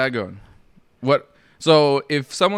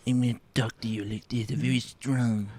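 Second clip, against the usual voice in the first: a mock Italian accent, softer, testing it out; 6 dB quieter than usual. Co-host asked for an Italian impression, trying a mock Italian accent. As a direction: try on a put-on Italian accent. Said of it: "your Italiano fucking impression".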